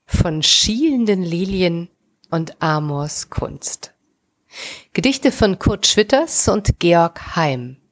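slow, measured title read; podcast episode announcement. Acted. Opening the poetry podcast for listeners, measured announcement. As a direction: announce episode and poems with deliberate pacing.

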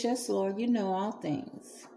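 a light, casual yes with little weight; offhand, unemphatic. Retold or imitated. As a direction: toss it off without thinking. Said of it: "not putting much emphasis on it".

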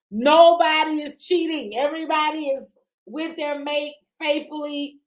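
slow, lingering dreamer's voice; drawn out like a fairy tale wish; dreamy ideal. Pretend. Dreamy picture of an ideal world.

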